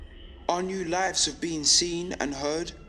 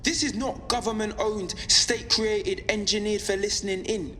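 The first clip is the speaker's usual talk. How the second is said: impassioned, slightly raised-pitch radio address; defiant broadcast; 4 semitones higher than usual. Acted. Pirate broadcaster rallying listeners against government control, defiant. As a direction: press each point with steady conviction.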